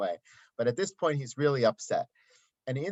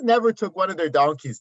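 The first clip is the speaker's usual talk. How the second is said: never took one of their donkeys said higher and louder with never hit; stress on never; 5 semitones higher, 7 dB louder than usual. Shown as a demonstration. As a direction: quote the phrase with emphasis on never. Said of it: "What is".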